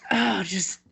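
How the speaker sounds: high, quavering hammed-up preacher; teen mocking her preacher's rock-and-roll rant, high and hammed-up. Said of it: "And he's like".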